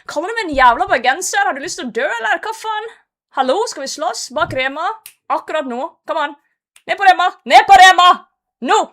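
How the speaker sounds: loud fake fight challenge in Norwegian; hammed-up picking a fight, shouting; mock aggressive. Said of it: "I gotta be slightly aggressive".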